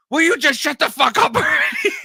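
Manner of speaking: high, loud parent yell breaking into laughter; hammed-up dad yell through a laugh; laughing mock yell. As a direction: yell at the kids but crack up. Imitating himself yelling at kids.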